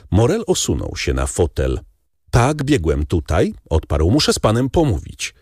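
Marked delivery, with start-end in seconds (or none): 2.3-5.3 lightly voiced young man. A narrator's reading. Morel voiced, out of breath.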